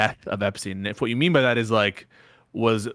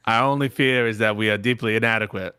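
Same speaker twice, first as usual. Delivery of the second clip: a faint attempt at a Boston accent; lightly voiced Kennedy speech; barely there JFK voice; JFK impression; 4 semitones lower than usual. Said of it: "I'll do a J F K impression".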